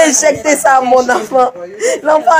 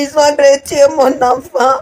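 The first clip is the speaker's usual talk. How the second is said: crying. Real, not acted. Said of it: "cette dame qui est en train de pleurer".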